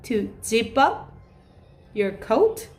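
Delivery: very slow, careful model question; slow polite offer. Shown as a demonstration. Teacher offering to zip a child's coat, very slow. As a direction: offer help with each word placed. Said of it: "한번 해볼게요".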